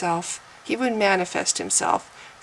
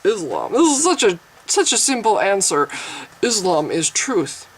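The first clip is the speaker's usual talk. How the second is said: mock a smug believer's simple answer; imitating an arrogant man declaring his truth; self-satisfied mock pronouncement, slowing at the end; arrogant claimant. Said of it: "That's how you sound to atheists".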